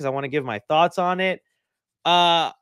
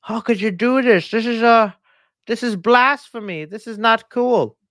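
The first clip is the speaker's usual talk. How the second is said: louder, indignant disbelief; mock outrage; 5 semitones higher, 5 dB louder than usual. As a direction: play it up as a betrayed fan. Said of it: "and I was like".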